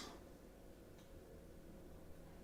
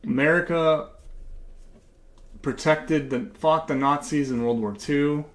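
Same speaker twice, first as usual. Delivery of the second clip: mock patriotic pandering. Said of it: "I'm gonna keep talking like this".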